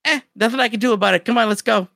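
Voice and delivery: quick, lightly imitated brush-off; dismissive shrug. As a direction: toss it off quickly and move on. Character shrugs off the deaths.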